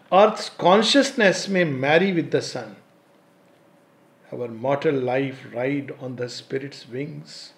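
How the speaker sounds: slow, measured poetic reading; verse recitation. Acted. Speaker reciting a verse on Earth's consciousness, measured recitation.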